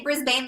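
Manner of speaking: "Brisbane" ending in a full "bane"; mistaken local pronunciation. Retold or imitated. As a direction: say "Brisbane" to rhyme with "rain". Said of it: "I heard someone say Brisbane".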